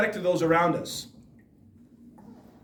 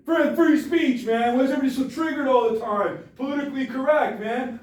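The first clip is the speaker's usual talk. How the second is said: higher, scoffing mock dude voice, quick in the middle; mocking old bigots; 4 semitones higher than usual. Speaker imitates people defending slurs fifty years ago, higher scoffing mock voice. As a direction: toss off "free speech" as a lazy excuse. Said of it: "you know what they said?".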